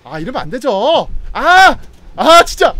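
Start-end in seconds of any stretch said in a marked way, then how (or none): 1.3-2.7 loud, high outburst of real frustration; frustrated shout. Real, not acted. Streamer yelling at the game in frustration. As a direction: yell it out, fed up with the game.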